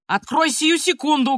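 acted angry shout; shouting, working into a rage. A narrator's reading. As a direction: demand it as an enraged grandfather. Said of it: "кричал дедушка, приходя в раж".

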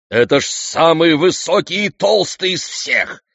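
high, eager royal voice; excited exclamation. A narrator's reading. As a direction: marvel greedily at the huge oak. King exclaims over the biggest oak.

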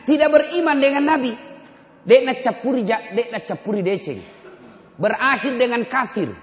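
high, loud, rising preacher's cry; fiery preaching. Acted. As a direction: preach it hard to the crowd. Preaching at full force. (khotbah berapi-api, tinggi dan lantang)

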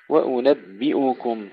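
وأنبئكم with a full i on the B then hamza u; clear kasra on ba. Shown as a demonstration. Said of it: "تحقيق كسر الباء قبل الانتقال إلى الضمة". (تحقيق كسر الباء)

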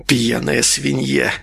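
slow contemptuous hiss. Acted. Malysh hissing slowly about the drunk nurse. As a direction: hiss the insult slowly with scorn. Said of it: "прошипел".

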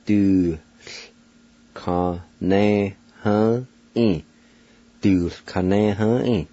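"Du ka ne ha e" said slowly, each syllable apart, the T L blended into one sound; Cherokee pronunciation. Shown as a demonstration. Teacher sounding out a Cherokee word for beginners, slowly. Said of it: "you just pronounce the T L like this".

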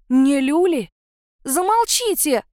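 slow, high scream. A narrator's reading. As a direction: yell to stop them all. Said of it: "во весь голос завопила я". (кричит изо всех сил)

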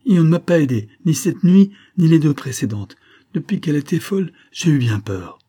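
put-on high, loud girlish complaint; indignant young servant girl; aggrieved young nurse. A narrator's reading.

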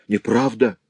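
loud high denial; shouting. Acted. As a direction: cry out in disbelief. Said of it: "вскричал разбойник".

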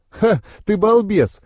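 high, drawn-out amused exclamation; chuckling. A narrator's reading. Girl teasing her boyfriend, lightly acted chuckle. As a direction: tease with a short scoffing ha. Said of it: "хохотнула девушка".

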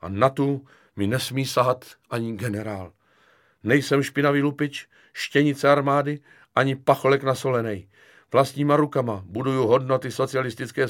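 lofty, high-minded declaration; grandly pathetic. Acted. Kefalín defending his honour against general, solemn pathos. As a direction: proclaim it like a wronged hero. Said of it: "řekl pateticky Kefalín".

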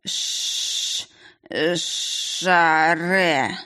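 barely voiced, fading last words; dying whisper. A narrator's reading. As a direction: struggle to get the words out. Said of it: "уже совершенно невнятно".

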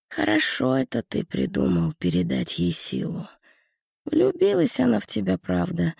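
sly devil with a nasty snicker; nasty giggling devil. Acted. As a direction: tease him like a sneering imp. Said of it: "мерзко захихикал чёрт". (мерзко хихикающий чёрт)

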